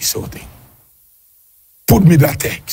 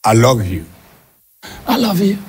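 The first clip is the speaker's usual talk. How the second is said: mocking quote; 3 semitones lower than usual. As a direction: parrot the empty phrase lower than his own voice. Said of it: "What do you mean?".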